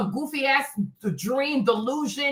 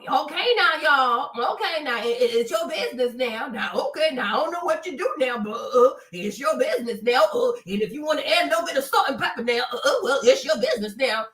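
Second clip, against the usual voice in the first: mocking Southern accent impression; light, laughing Southern accent parody; Tabitha Brown Southern accent. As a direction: tease with a put-on Southern accent, chuckling at the end. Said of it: "her Southern accent is just so damn thick".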